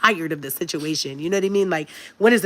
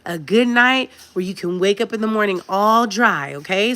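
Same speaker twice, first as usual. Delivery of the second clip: gentle mom voice; 2 semitones higher than usual. Retold or imitated. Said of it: "you don't gotta talk to 'em like that".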